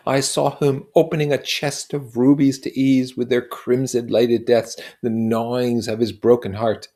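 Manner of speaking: dazzled wonder. Acted. Nick amazed that Gadsby's stories are true, dazzled. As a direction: let the fantasy carry you away. Narrator swept into fantasy.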